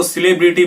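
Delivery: सेलिब्रिटी said as "si-LEB-ri-ti"; सेलिब्रिटी with the weight on "leb"; model reduced first vowel. Shown as a demonstration. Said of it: "इसको सेलिब्रिटी बोलेंगे".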